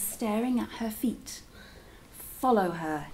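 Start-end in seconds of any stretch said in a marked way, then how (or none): 2.4-3.1 hushed whisper of a command; whispered order. A narrator's reading. King orders his men softly while hiding, whispering. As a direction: whisper it so nobody hears. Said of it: "he said quietly".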